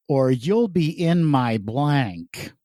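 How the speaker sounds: slow, arch game-show delivery; milk each word slowly for the joke; Charles Nelson Reilly. Acted. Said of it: "I tried to deliver it like Charles Nelson Riley".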